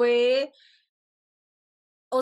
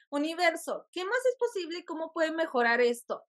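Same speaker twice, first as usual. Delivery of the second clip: high, eager plea to the universe; retold hopeful appeal; 5 semitones higher than usual. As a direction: call on the universe, pitched up. (petición ilusionada al universo, en tono agudo)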